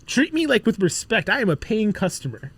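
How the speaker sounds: high-pitched, hammed-up entitled customer; mock indignation. Playing the Miami club customer wanting respect, mock indignant. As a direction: demand respect in mock outrage.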